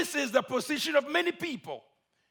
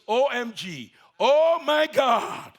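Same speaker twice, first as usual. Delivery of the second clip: crying out; 2 semitones higher, 5 dB louder, slower than usual. Acted. Man cries out in danger.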